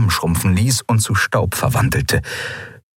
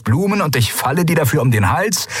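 scornful; 4 semitones higher than usual. Acted. Lien scorning Galet's gift, biting. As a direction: sneer at his foolishness.

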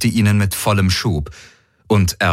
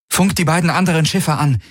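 higher, crisp command to the ship; commanding order; 8 semitones higher than usual. Acted. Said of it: "befahl sie der Vago".

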